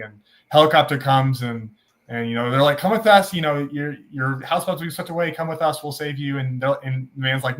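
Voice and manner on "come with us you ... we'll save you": urgent rescuer. Acted. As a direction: urge him to come along. Helicopter crew calling to stranded man.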